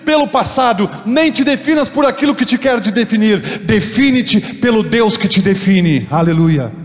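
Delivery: high, shouted sermon delivery; loud, driving proclamation of faith; full-force preaching. Real, not acted. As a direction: preach it at the top of your voice.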